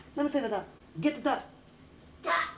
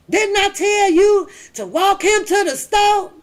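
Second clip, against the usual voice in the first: stern dad; 7 semitones higher, 5 dB louder than usual. Retold or imitated. Dad voiced in story.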